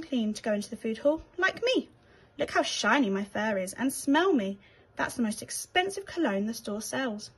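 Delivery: a lightly voiced grand, self-satisfied rat; night-manager rat boasting of his fur and cologne; proud rat. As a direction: preen and show off. Rat introduces himself proudly.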